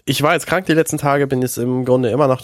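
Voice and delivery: slightly blocked nose from a cold; speaking with a mild head cold; stuffy nose. Real, not acted. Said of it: "deswegen klinge ich ein bisschen verschnupft". (leicht verschnupft)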